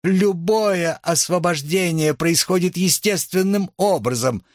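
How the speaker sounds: high-pitched declaration over noise; insistent oratory. A narrator's reading. Nicole pressing on over the hecklers, insistent declaiming.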